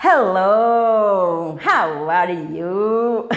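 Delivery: put-on English greeting in a heavy Bahian accent, slow "How are you". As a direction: greet a foreigner with your Bahian accent blooming. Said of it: "meu sotaque aflora".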